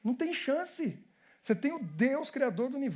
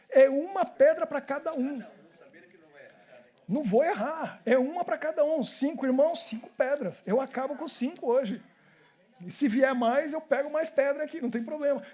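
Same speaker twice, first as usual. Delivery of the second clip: higher, emphatic fighting talk; acted confident bravado; 4 semitones higher than usual. David counting a stone per giant brother, higher and cocksure. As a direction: lightly play a fearless young fighter.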